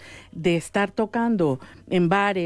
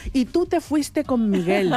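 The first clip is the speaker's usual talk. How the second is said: imitating a drawn-out, higher-pitched reproach; mock reproach; 4 semitones higher, slower than usual. Singer teasing bandmate for leaving with Miguel, mock reproach. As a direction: throw it back like an old grievance. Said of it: "siempre me echa en cara".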